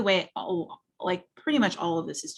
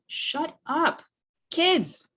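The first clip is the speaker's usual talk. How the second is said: much higher, sharp exasperated cry; fuming snap; 10 semitones higher, 3 dB louder, much slower than usual. Acted. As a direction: lose patience and cut the kids off. Fuming parent snaps at kids.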